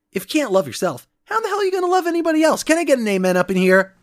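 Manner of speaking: quick preacher-style catchphrase; RuPaul sign-off. Acted. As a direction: hype it up like RuPaul closing the show. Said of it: "RuPaul catchphrase sign-off".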